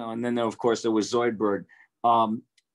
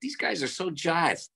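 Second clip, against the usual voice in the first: mocking announcer; 8 semitones higher, 4 dB quieter, slower than usual. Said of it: "I used to say".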